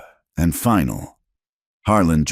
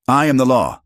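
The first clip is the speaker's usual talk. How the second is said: higher, louder enraged scream; a cattle baron screaming his authority at the deputy; 8 semitones higher, 5 dB louder than usual. Acted. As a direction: scream it, stressing am. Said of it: "Harlan screamed".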